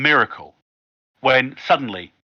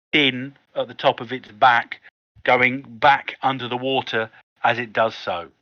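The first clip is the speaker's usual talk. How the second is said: slow, suspenseful reveal; game master's scene setting. Acted. Game master revealing a huge creature in the water, suspenseful narration. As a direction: describe it with deliberate pauses, drawing out the reveal.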